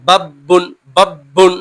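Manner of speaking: "বাব্বুন" with a punchy doubled ব; forceful push. Shown as a demonstration. Teacher demonstrating tashdid, strong push on the doubled letter. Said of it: "একটু জোরালো ধাক্কা হয়".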